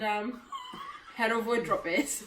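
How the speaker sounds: laughing through the words; giggling. Real, not acted. Wrapping up the question video, giggling through it. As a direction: break into giggles mid-sentence.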